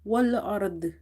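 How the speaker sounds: Wal ard closing on vowelless r and heavy d; both letters sakin. Shown as a demonstration. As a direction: join r and d at the end of Wal ard. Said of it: "read both letters sakin with each other".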